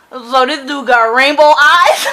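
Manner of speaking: laughing, disbelieving question. Real, not acted. Laughing at description.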